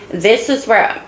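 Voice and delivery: cracking, losing the voice. Real, not acted. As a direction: voice giving out mid-phrase. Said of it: "I'm sorry I keep losing my voice".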